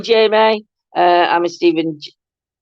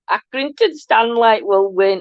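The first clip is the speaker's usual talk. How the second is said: put-on Liverpudlian accent; 3 semitones higher than usual. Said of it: "I can't even do a Liverpudlian accent".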